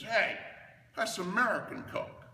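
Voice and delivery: put-on loud, high, delighted little girl's discovery; excited kid. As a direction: call it out like a kid who caught the trick. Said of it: "My sister looks at my dad and says".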